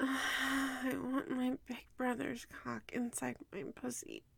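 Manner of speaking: soft, reluctant, unenthusiastic whisper.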